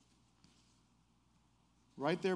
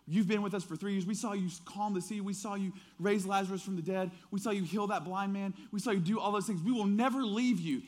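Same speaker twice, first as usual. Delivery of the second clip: acted-out protest in a raised voice; higher-pitched, insistent disciples' promise; insistent pledge; 4 semitones higher than usual. Acts disciples' insistent pledge of loyalty.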